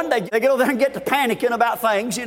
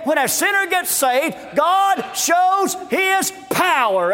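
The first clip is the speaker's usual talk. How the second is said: driving revival sermon, building in pitch; impassioned preaching; 3 semitones higher than usual. Real, not acted. Preacher to congregation on the landmark miracle, impassioned preaching.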